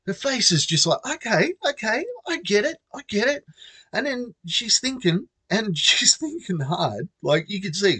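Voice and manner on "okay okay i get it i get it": high mock girl voice. Girl voiced, pretending understanding.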